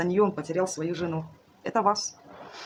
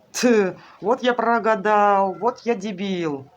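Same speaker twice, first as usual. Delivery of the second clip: rueful husband; 3 semitones higher, 5 dB louder, much slower than usual. Retold or imitated. Voices the husband's regretful answer.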